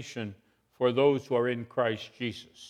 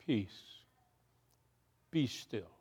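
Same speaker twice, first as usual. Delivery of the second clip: soft, hushed and slow, a calm command to the storm; 4 semitones lower, 12 dB quieter, slower than usual. Acted. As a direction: still the storm with a soft word. Jesus calms the storm.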